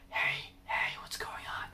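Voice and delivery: breathy unvoiced whisper. Shown as a demonstration. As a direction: whisper it softly. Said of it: "almost like you're whispering".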